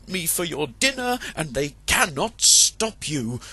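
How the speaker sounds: high sly rooster; crafty rooster. Acted. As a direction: goad the fox to boast. Chanticleer tricks the fox.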